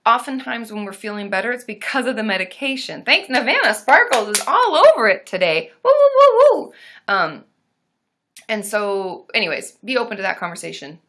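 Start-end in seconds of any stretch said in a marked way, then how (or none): 5.8-6.7 very loud high playful monkey hoots. Pretend. Celebrating a donor on stream with loud monkey hoots. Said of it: "his monkey noises".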